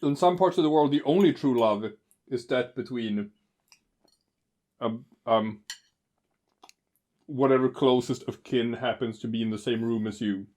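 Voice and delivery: talking while eating pie; mouth full. Real, not acted. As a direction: speak through a mouthful of pie. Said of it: "you keep talking with your mouth full".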